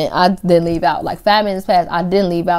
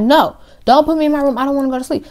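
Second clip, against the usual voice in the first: put-on drunk whiny protest; 7 semitones higher, faster than usual.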